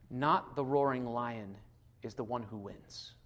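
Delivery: tender reflection; slow, reverent. Acted. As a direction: lay each phrase down slowly.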